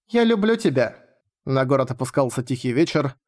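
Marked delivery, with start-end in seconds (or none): 0.1-1.0 put-on girl's whisper. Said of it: "прошептала Латина ему на ухо".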